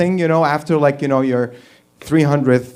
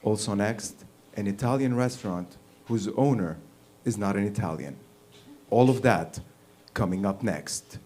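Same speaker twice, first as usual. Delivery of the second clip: mock newscaster; 5 semitones lower, 8 dB quieter than usual. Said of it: "What the fuck is wrong with newscasters?".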